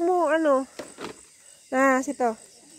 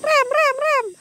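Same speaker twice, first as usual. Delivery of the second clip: urgent call; 11 semitones higher, much slower than usual. Real, not acted. Calling out to brake.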